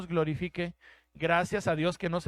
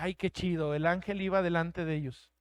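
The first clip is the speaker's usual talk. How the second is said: naive delight; 2 semitones lower, 4 dB quieter than usual. Retold or imitated. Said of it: "esto decía".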